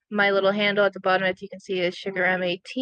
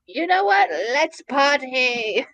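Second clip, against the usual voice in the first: party mentality; 4 semitones higher, slower than usual. Acted. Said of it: "has basically has the mentality of".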